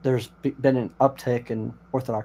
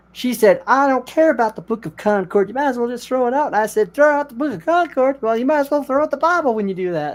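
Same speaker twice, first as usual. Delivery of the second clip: much higher and louder, indignant disbelief; outraged retelling; 11 semitones higher, 5 dB louder than usual. Retold or imitated. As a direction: act out the scandalized Lutheran. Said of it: "he's like".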